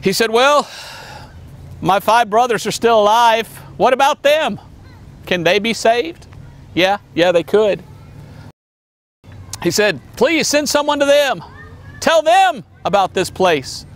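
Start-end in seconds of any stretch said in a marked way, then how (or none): 0.3-6.2 desperate rich man. Acted. Rich man asks about brothers. 10.2-13.8 begging rich man. Acted. Rich man begs for brothers.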